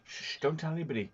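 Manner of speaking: hushed quote. Retold or imitated. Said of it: "She goes, like".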